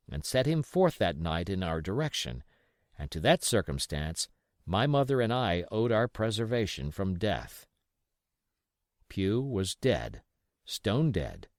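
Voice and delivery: ordinary delivery, nothing marked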